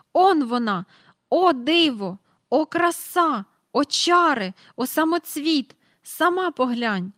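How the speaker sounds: high, loud, awestruck exclamations; rapturous. A narrator's reading. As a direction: gush over the star. Mr Banks rapturous at telescope. (у захваті вигукує)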